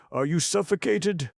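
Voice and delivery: frantic high calling, long falling ends. A narrator's reading. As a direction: shout across the valley for the boy. Elephant searching for lost boy.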